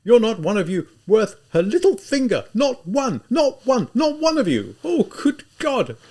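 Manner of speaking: high, tearful desperate pleading; weeping shout. Acted. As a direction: sob and shout at once in despair. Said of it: "in this hoarsely shouting voice, in this violent weeping".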